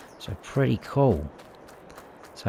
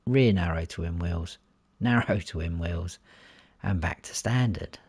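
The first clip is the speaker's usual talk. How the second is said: out of breath. Real, not acted. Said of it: "I'm out of breath".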